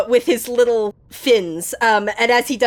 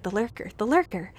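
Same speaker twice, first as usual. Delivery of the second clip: fish whispering; 8 dB quieter than usual. Acted. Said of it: "the fish kind of all whisper".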